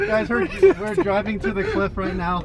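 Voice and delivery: talking while bouncing in a truck; on a bumpy road. Real, not acted. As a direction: voice jolted by bumps. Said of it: "this road is so bumpy".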